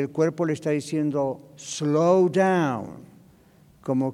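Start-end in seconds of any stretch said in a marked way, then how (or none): 1.6-2.9 drawn-out, easing 'slow down'; slowing down. Acted. The body telling a discouraged person to stop, slowing down. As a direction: stretch the words like brakes easing on. Body's message to slow down.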